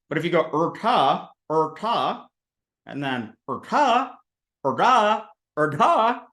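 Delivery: er ta with a small r in front; er ta and er da, tongue curled back; curled tongue heavy consonants. Shown as a demonstration. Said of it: "it gets your tongue right there".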